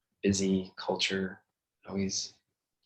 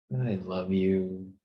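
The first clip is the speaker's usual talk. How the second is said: slow tender; slower than usual. Shown as a demonstration. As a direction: let the words stretch out gently. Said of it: "change the tone".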